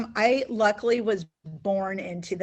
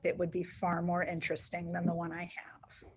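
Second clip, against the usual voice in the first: whispered aside; 9 dB quieter than usual. Real, not acted. Joking aside.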